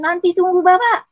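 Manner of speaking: loud, high mock child's yell; a mother shouting back at a whining child, loud and high. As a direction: yell it like a kid told to wait for dad. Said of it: "teriak-teriak".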